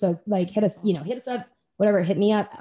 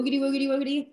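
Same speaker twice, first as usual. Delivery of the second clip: playful, higher-pitched nonsense catchphrase; rocket power goodbye; 5 semitones higher, much faster than usual. Shown as a demonstration. Guest showing host a goodbye, playful chant. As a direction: chant it as a silly sign-off. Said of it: "go like this".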